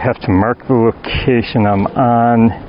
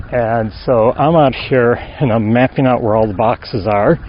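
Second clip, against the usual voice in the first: out of breath. Real, not acted. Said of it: "Sorry if I feel, sound out of breath".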